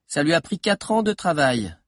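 put-on nervous young historian lecturing. A narrator's reading. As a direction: start a careful lecture, pausing between phrases. Figure of Valère starting his lecture.

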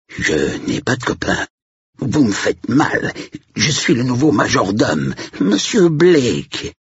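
put-on strained, high English-accented French, slowing on the name. A narrator's reading. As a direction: protest painfully with a light English accent. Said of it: "Il avait reconnu l'accent anglais". (accent anglais, voix aiguë et crispée)

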